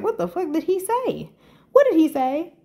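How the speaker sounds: high, urgent, repeated demands; mock outrage ready to fight for her; hyped disbelief. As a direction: pester them to spill the news. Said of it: "I was just like that. I was hyped".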